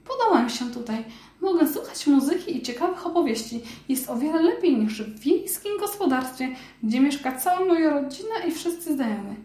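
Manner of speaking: high, amazed mouse voice; a tiny mouse who can't believe it's real; little mouse voice. Acted.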